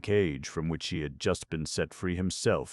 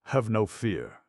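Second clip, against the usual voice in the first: reassuring; 6 semitones higher, 4 dB louder, slower than usual. A narrator's reading. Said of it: "said Ascanio".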